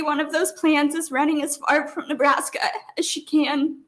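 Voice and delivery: words wavering with tears; crying. Real, not acted. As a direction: say it as the tears return. Mother testifying about daughter.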